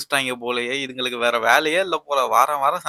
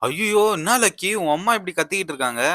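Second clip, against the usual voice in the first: shocked; 6 semitones higher than usual. Acted. Neighbour uncle hears shouting.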